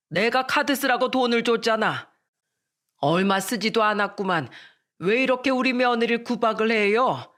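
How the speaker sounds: comforting daughter-in-law, then scolding wife; father-in-law coddling the bride and rebuking his wife; indulgent father-in-law. Acted. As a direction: soothe her, then snap at your wife.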